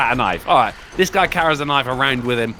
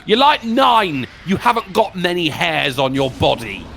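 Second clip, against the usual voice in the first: mocking retort; 4 semitones higher than usual. Real, not acted. Streamer mocking the villain in the story, high and sarcastic. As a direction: poke fun at the monster's line. Mocks the story's creepy figure.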